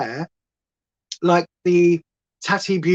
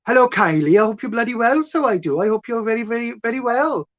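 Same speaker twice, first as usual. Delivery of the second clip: put-on Welsh accent; 4 semitones higher than usual. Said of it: "it is my grandmother's accent".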